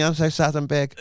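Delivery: lightly voiced bad German accent, high and loud; a clumsy German accent on a big man. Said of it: "That's not a German accent".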